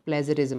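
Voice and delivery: प्लेजरिज्म ending in a short "riz-um"; corrected pronunciation. Shown as a demonstration. Teacher repeating the corrected word, प्लेजरिज्म with short "ri". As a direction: keep the i of प्लेजरिज्म short, not "rise". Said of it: "sorry, राइज्म नहीं".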